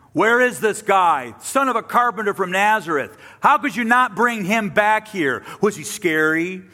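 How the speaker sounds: indignant officials interrogating their guards; exasperated Pharisees. Acted. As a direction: press the guards hard for answers. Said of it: "you can hear that, right?".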